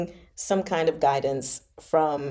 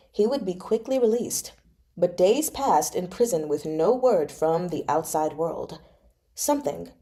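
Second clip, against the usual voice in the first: even, measured audiobook reading; story narration. A narrator's reading. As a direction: read the novel aloud to listeners. Resumes reading the novel.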